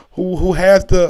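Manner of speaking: ordinary talk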